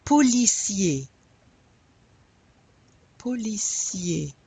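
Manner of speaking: POLICIER ending in an "ay" sound, R silent. Shown as a demonstration. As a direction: say "policier" as "po-lee-SYAY". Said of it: "the E R often makes the".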